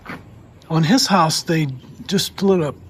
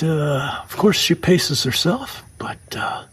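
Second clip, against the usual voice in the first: whispering. Real, not acted. Quiet admiring aside.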